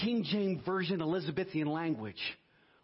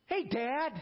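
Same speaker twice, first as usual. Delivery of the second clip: higher, easy call to a father; casual address to Dad; 8 semitones higher than usual. Acted. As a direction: talk to God like a kid greeting Dad. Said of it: "Just talk to me like".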